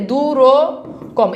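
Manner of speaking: দুরকম stretched out very slowly, syllable by syllable; drawn-out example. Shown as a demonstration. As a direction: draw out দুরকম slowly as if spelling it. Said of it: "একটা hyphen দিয়ে দেন". (ধীরে টেনে দুরকম বলা)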